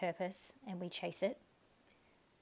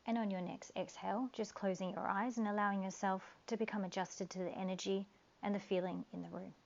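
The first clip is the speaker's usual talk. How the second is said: calm guiding voice with long pauses; guided meditation. Acted.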